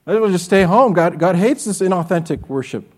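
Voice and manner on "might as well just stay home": amused repetition; chuckling through the words; laughing. Real, not acted. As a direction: repeat it with a laugh, a bit quicker. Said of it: "you might as well just stay home".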